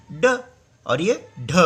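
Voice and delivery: ड plain and ढ with breath; letter contrast. Shown as a demonstration. Scene: teacher tells students how to say ड and ढ, careful demo. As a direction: say ड then ढ, showing the breathy one. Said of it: "ऐसा बोलेंगे".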